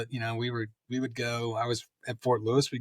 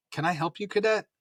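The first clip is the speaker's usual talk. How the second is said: imitated officer's question, pitched up high at the end; officious challenge; 8 semitones higher than usual. Teacher major to a cadet who walked in, officious challenge. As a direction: challenge an intruder, voice climbing.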